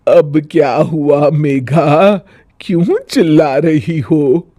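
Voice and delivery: sigh, what now; weary mother-in-law. Acted. Mother-in-law answering bahu's shouting, weary.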